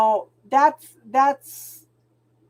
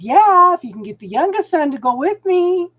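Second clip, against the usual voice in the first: quick loud grudging yeah, pitched up; imitating her son; 7 semitones higher, 6 dB louder than usual. Mother retells her son's grudging answer, mock reluctant. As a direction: mimic a reluctant teenage son. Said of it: "My oldest son said".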